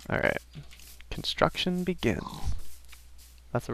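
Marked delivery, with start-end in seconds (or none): 1.1-2.2 put-on higher-pitched Violet teacher card accent. Quoting the Hearthstone card as he starts building, in its accent. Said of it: "why I said it in that accent".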